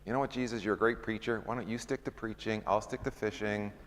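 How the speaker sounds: lightly voiced Peter telling Jesus to stick to preaching. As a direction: brush Jesus off gently, softly. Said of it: "in my little version of it".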